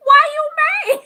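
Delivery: high, loud, laughing taunt; teasing. Retold or imitated. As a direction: squeal it like a playful taunt. Retold teasing of angry son.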